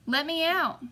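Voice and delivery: a trapped voice shouting from inside the sack, high and loud; harsh cry. A narrator's reading. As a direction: yell it out, desperate to be freed. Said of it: "a harsh voice cried out".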